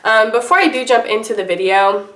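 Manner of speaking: talking while under the weather with a cold; sick voice. Real, not acted. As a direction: voice rough from a cold. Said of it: "I'm sick and I have a gross, icky voice right now".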